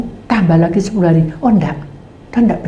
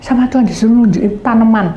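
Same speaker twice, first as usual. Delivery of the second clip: usual speaking voice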